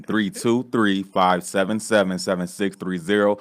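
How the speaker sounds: slow, spaced-out digits; deliberate slow number read. Shown as a demonstration. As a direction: read the number slowly for viewers. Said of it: "I'll say it slower".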